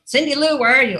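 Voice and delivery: high sing-out call for a customer; calling out a name. Retold or imitated. Barista seeking the customer for a drink, calling out.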